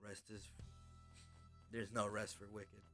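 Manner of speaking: normal talking voice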